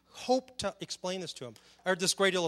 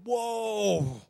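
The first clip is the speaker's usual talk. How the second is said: a lightly voiced "Whoa" of awe; a mock gasp of wonder, a bit higher; awed whoa; 5 semitones higher, 5 dB louder than usual. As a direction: marvel at the cosmos, mildly. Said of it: "see all this stuff and go".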